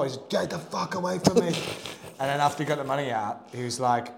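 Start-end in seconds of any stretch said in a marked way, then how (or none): 0.3-1.5 loud, high retold warning; imitating an angry outburst. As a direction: act out blowing up at a stranger. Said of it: "Blew up at him".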